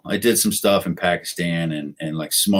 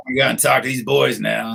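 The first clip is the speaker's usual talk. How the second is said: lightly imitated folksy president; a touch of presidential accent; President Bush; 3 semitones higher than usual. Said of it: "his little accent, his voice".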